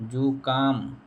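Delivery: जुकाम with unaspirated क; teacher modelling जुकाम, no puff on क; correct form जुकाम. Shown as a demonstration. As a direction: say जुकाम with a plain k. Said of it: "ये शुद्ध".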